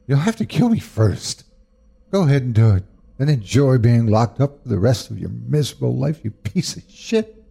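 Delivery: high, cutting defiance that spits the last words; defiant mother. Acted. Mother defying her drunk husband with the bat, scornful and high. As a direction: dare him to swing, fearless and scornful.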